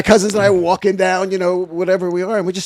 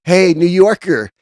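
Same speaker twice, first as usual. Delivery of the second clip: put-on teasing girl; 3 semitones higher, 6 dB louder, slower than usual. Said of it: "And she goes".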